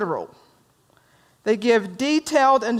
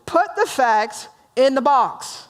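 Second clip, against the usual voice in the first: curt warrior, slow; 4 semitones higher, slower than usual. Acted. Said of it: "So Bob, the warrior".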